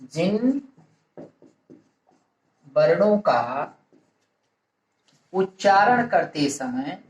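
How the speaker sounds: word by word with long pauses; dictation. Real, not acted. Teacher giving students a definition to write down, measured dictation. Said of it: "परिभाषा के रूप में लिख लिया जाए".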